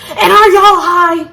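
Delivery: high, slow sassy question; sassy attitude. Retold or imitated. Dad coming back with a sassy question about being high. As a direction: drawl it with sass. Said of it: "his little sassy attitude".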